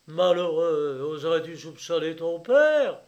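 loud, indignant exclamation; outraged cry. A narrator's reading. Father losing control before his son, outraged cry. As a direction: cry out, losing all restraint. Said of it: "s'écria Clapier, qui perdait toute mesure".

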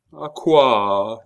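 mournful, woeful question; lamenting tone. A narrator's reading. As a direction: ask it pitifully. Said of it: "dit le roi d'un ton lamentable".

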